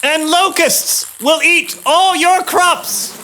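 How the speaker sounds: slow, high pronouncement; solemn warning. Acted. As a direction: declare each plague slowly. Moses listing plagues.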